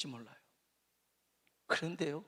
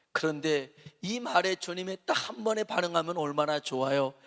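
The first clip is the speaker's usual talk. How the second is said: usual speaking voice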